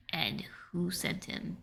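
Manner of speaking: hushed, breathy whisper. Real, not acted. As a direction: whisper it under your breath. Player demands answers, drops voice.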